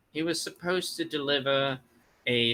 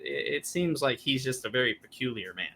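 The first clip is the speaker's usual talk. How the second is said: ordinary talk, nothing marked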